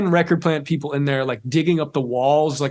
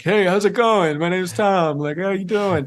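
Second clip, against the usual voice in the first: mock eager fan; 5 semitones higher, slower than usual. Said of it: "go up to her and be like".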